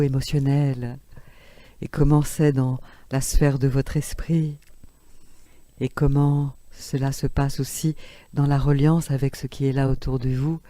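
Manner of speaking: calm inward body scan; guided meditation. Acted.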